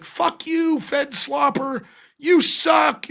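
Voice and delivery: imitating an insulting troll, ending in a shout; mock hostile retort. Mimicking a hostile chatter's insult, snapping then shouting. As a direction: sneer it, then yell the last bit. Opponents' hostile reply, acted out.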